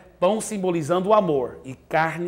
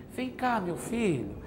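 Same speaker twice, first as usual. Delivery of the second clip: gentle call aside; 3 semitones higher, 4 dB quieter than usual. Shown as a demonstration. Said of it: "fala assim".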